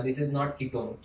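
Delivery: each word laid down slowly and firmly; warning students off a common error, slow and firm; slow emphatic correction. Shown as a demonstration. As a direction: spell out the mistake word by word. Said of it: "गलती मत करना".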